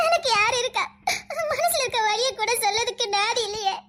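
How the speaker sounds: sobbing, leaning on எனக்கு; crying. Acted. Weeping girl repeats who she has, stressing எனக்கு. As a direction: stress எனக்கு in a tearful cry that falls away.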